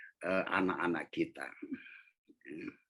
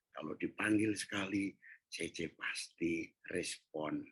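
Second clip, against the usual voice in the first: gentle apology. Retold or imitated. Father apologizing gently to child.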